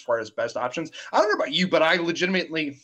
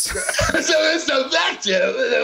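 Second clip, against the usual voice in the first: drawn-out booming proclamation; dramatic slow shout; 10 semitones higher, 5 dB louder, much slower than usual. Pretend. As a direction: boom it out slowly like an announcer. Echoing co-host's phrase dramatically.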